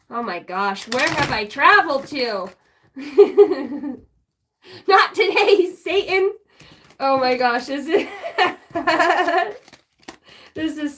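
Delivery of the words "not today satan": mock sass. Real, not acted. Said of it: "laughing joking retort".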